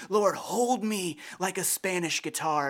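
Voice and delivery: slow, drawn-out mock-passionate prayer; imitated prayerful cry. Man praying aloud in his prayer group, imitated passionate cry. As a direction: draw out an earnest plea, lightly hammed up. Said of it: "he just cries out".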